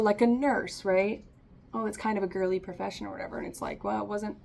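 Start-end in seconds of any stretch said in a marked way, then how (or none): 1.7-3.4 mock dismissive. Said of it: "some might say".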